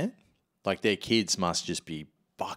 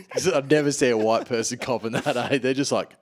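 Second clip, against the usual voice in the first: ordinary delivery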